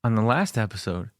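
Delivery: talking while chewing gum. Real, not acted. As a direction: chew gum through the words. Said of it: "So I'm chewing gum right now".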